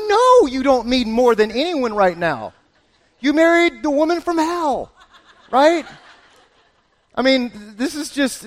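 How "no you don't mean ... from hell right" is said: high, loud comeback through laughter; laughing retort. Pretend. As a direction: laugh it off at him.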